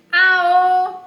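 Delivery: high, loud yell; shout. Acted. Mole yelling back at grandma. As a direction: belt the cry.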